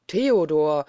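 a loud, anguished outcry of the name; grieving cry. A narrator's reading. Manfred crying out Theodor's name in sorrow, loud. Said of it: "sprach Manfred trauernd".

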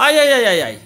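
panicked high yelps; scared horror game streamer. Real, not acted. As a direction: yelp in real fright. Monster spots him in game.

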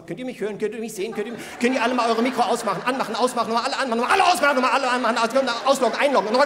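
rattling off mock tech instructions; hurried teacher juggling mics; mock online teacher. Imitating online class teacher.

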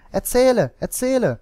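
high, loud, eager cry; children calling out. A narrator's reading. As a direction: beg loudly like excited children. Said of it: "die Kinder klatschten in die Hände und riefen".

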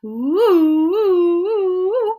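quick, loud sung oohs in a row; fast zigzag oohs. Shown as a demonstration. Teacher speeds through the zigzag path in quick oohs. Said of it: "Can you try it fast?".

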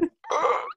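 high-pitched mimic of a choking laugh; short, high strangled noise; imitated choked laugh. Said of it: "you just went".

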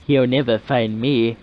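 put-on lightly sultry French accent; sexy French accent. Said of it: "she says in her sexy French voice".

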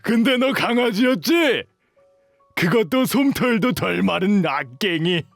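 lilting, exaggerated ridicule; mocking taunt. Bully belittling the runaway as a puppy, gleeful taunting. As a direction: toy with the weakling, pitch swooping up.

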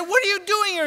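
high, loud mock disbelief; astonished outburst. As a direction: blurt it in shrieky, acted astonishment. Startled husband accosts crying wife.

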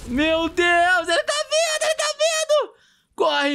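high, frantic panic; panicking gamer. Real, not acted. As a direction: yell it as the monster charges. Monster charging at them.

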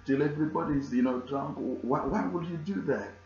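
a preacher hamming up an indignant party host; scolding bridegroom. Retold or imitated.

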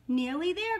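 high, loud motherly call. A narrator's reading. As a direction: call ahead to the little ones. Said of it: "called Mother Duck".

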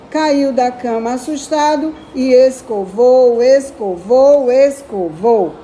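put-on children's poem read lightly aloud. Teacher reading the jacaré poem aloud to young pupils.

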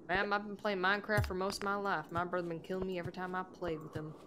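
folksy put-on accent, lightly done; put-on drawling accent. Gamer reading a viewer's comment aloud in a put-on folksy accent. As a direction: read it out in a homespun put-on accent. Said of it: "why I read that in the accent".

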